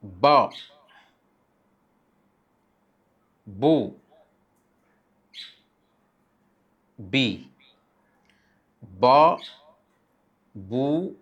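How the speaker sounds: ब, बू, बी said crisp and short; short vowel demo. Shown as a demonstration. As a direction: clip each syllable short. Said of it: "जैसे". (छोटी हरकत से ब, बू, बी)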